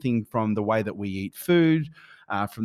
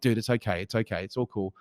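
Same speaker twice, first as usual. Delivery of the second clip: retold soothing, dropping softer; reassuring; 3 dB quieter than usual. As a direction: quietly settle a worried child. Retold reassuring of his young son.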